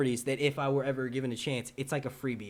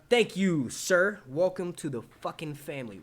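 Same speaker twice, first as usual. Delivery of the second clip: loud, raised thank-you into a big welcome; hearty welcome; 3 semitones higher, 5 dB louder, slower than usual. Acted. Streamer thanking a new subscriber, hearty. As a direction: greet with over-the-top gusto.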